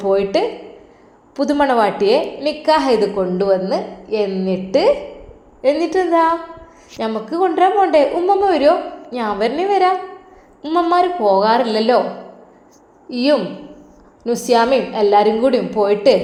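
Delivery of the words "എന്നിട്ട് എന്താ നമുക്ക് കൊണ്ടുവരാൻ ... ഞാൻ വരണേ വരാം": put-on high, childlike voice scolding grandma; little girl voice. Little granddaughter correcting grandma, high childlike voice. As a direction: play a small girl correcting her granny.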